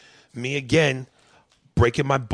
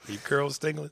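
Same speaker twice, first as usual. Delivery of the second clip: hushed, voiceless teasing question; teasing whisper; 4 semitones higher, 5 dB quieter than usual. Pretend. Host whispering a joke to his cohost.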